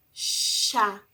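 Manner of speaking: Chá said as SHA; syllable demo. Shown as a demonstration. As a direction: sound out Chá for kids. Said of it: "Ó, mudou o som".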